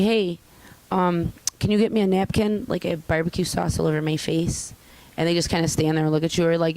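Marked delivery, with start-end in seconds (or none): 0.0-4.7 polite, mild request with no curse word; courteous everyday request; polite ask. Shown as a demonstration. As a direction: ask nicely, a bit raised. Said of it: "It's an inflection".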